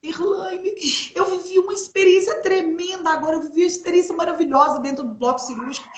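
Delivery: high, tearful voice breaking on the name; retold crying. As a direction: relive the sobbing words to her sister. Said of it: "eu entrei no quarto chorando".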